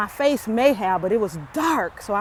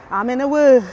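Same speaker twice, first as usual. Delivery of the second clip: excited shout; 4 semitones higher, 11 dB louder than usual. Real, not acted. Repeats the shout.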